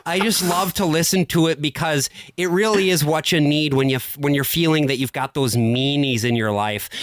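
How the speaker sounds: lightly voiced Minnesotan accent, slow and sweet; a hint of a Minnesotan talk-show host gushing over a song; Minnesota radio lady. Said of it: "Lutheran women with these Norwegian inflected accents".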